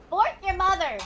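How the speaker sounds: mock insult yell. Joking insult in game talk.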